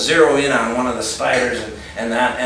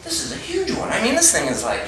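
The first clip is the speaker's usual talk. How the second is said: high, hushed panicky voice; acted panic; 10 semitones higher than usual. Geologist telling colleague of huge spider, panicky. Answers Jeff, scared of spider.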